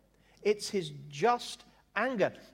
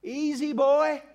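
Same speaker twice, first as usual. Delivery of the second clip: high, drawn-out whoa, as to a spooked horse; parody Moses; 6 semitones higher, 4 dB louder, much slower than usual. Acted. Moses calming an angry God, hammed-up soothing. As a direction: rein someone in with long, high vowels. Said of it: "it's like Moses go".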